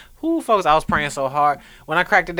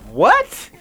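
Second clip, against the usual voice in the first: surprised; 13 semitones higher, 4 dB louder than usual. Retold or imitated. Shocked at dentist news.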